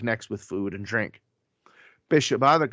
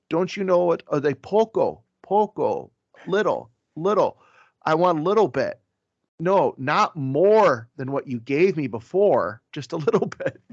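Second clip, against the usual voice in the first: higher, amused plea for just a bit; mock pleading for a little; 5 semitones higher than usual. A priest pleading with servers for only a little food. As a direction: beg them for a small portion, half laughing.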